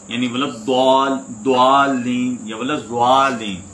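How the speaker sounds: ولد دوالین and ولد زوالین drawn out slowly, both wrong; wrong pronunciations demo. Shown as a demonstration. Teacher shows students two common mistakes, slow demo. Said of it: "یہ تو دونوں غلط ہیں".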